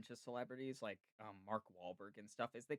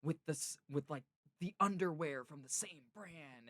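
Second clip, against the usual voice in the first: higher, punchy imitation of a pushy pitch; mock super-aggressive presenting; 4 semitones higher, 5 dB louder than usual. Imitating a celebrity pairing shoes with underwear, mock-aggressive. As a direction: present it with exaggerated force. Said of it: "he'll present it, like, s-, almost super aggressively".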